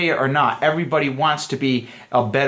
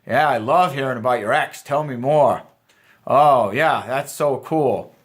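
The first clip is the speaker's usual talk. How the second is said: drawn-out, teasing fake interest; lightly sarcastic enthusiasm; playful mock enthusiasm; slower than usual. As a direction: feign delight, teasing her. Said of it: "we have to kind of flip that around".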